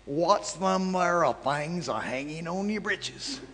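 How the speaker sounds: slow, each word drawn out and spelled clear; slowed-down repeat. Retold or imitated. Retelling the stranger's question slowly, word by word. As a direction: say it again slowly so it can be understood. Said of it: "Slow down".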